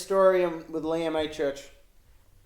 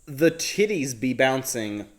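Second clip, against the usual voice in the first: loud, slow hammed-up Brooklyn street voice, mocking the review; mock Brooklyn accent; 5 dB louder than usual. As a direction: punch out the Brooklyn slang like a parody. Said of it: "You feel uncomfortable listening to me do a version of it".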